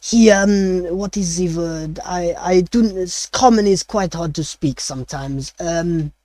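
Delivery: lightly voiced French chef searching for words; a chef fumbling for the Common word, French accent. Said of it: "he still speaks in a French accent".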